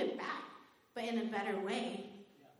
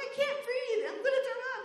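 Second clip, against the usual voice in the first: much higher, gasped out through laughter; laughing mock panic; 13 semitones higher, faster than usual. Telling John she can't breathe, high laughing panic.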